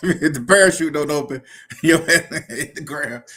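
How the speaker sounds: words broken up by real laughter; laughing while talking. Real, not acted. Laughing to the chat about the parachute not opening. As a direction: laugh your way through the punchline.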